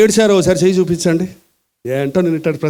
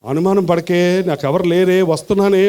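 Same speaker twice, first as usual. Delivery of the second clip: husband pleading softly. Retold or imitated. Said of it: "అంటాడు ఆయన".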